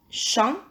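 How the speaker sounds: champignon. in three separated syllables; measured champignon., pausing after each syllable. Shown as a demonstration. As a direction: say "champignon." as cham, pi, gnon. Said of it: "à la troisième syllabe".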